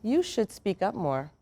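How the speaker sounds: a manager's flat judgement; curt criticism. Retold or imitated. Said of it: "your manager says to you".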